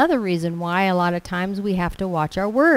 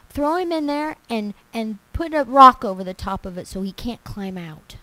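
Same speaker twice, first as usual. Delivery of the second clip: angry king; 3 semitones higher than usual. Acted. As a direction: bark it as a furious king. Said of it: "the king got so mad".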